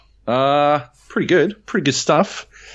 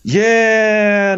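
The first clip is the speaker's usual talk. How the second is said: sarcastic yeah; 5 dB louder than usual. Retold or imitated. Retold retort to gate agent.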